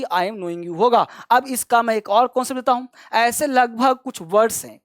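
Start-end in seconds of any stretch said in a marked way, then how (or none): 0.0-0.8 "I am knowing you" dropped softer as the wrong version; wrong form, softer. Shown as a demonstration. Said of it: "ना कि".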